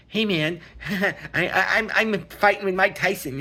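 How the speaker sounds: laughing mock fanboy bragging; mocking eager fan. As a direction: ham up an excited wannabe fighter. Mocking gym guys pestering Tyson.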